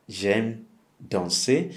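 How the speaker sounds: "J'aime danser" said very slowly, every syllable clear; slow, clear demo. Shown as a demonstration. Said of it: "If you like dancing".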